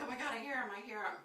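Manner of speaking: high, mildly panicked exclamation; retold flipping out. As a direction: act out rising alarm without shouting. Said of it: "I'm flipping out".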